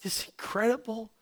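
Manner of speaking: soft tender whisper of God. Acted. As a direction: breathe it gently, barely voiced. God's tender question, whispered.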